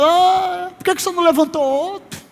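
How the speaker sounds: put-on high, protesting boyish voice; acted youngster's high-pitched complaint; Jeremias. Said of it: "Jeremias um dizendo".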